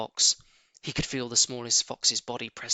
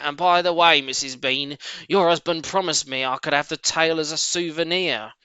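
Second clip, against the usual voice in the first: a hint of the big servant woman, called up the stairs; lightly voiced cellar maid; 4 semitones higher, 5 dB louder than usual. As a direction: maid answering her mistress. Mabel voiced in story.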